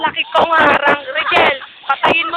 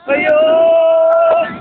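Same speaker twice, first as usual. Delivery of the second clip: excited shout; 2 semitones higher, 6 dB louder than usual. Real, not acted.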